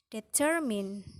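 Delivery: "determine" with TER stressed; middle-syllable stress. Shown as a demonstration. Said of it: "placed on the preceding syllable".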